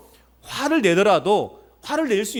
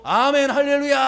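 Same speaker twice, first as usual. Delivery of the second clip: mock praise shout; 6 semitones higher than usual. Absurdly praising after a smack on the head, mock rejoicing. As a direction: sing out an exaggerated amen of praise.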